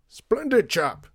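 red-faced golfer roars his praise to Lydia; roaring. Acted. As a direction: roar it with blustery delight. Red-faced man roaring again.

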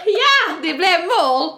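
loud high yes, it's a goal; loud laughing goal call; goal cheer. Pretend. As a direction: shout it like your team just scored. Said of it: "tänkte jag på Ulrika".

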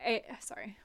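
slow, deliberate mock villain; drawn-out scheming conductor; a hint of a slow theatrical conductor. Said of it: "how would the conductor talk?".

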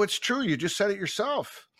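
high-pitched mock innocence; retold cheeky comeback. Coach talks back to offended referee, mock innocent.

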